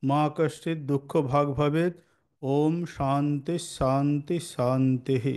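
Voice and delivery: slow, drawn-out mantra recitation; Sanskrit prayer recitation. Shown as a demonstration. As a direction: recite the prayer slowly, stretching the long syllables. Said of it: "এই প্রার্থনা দিয়ে আমরা শুরু করি". (ধীরে টেনে টেনে মন্ত্রপাঠ)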